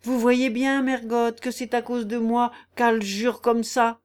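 a hint of gloomy menace; hollow, lugubrious. Silent man by the hearth accusing the girl, lugubrious. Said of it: "dit d'une voix creuse et lugubre".

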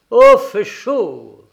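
put-on high, slow little child's voice; a small boy delighted by the warmth; fluty child voice. A narrator's reading. Little boy warming up in the cabin, high fluty voice. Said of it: "d'une voix un peu flûtée".

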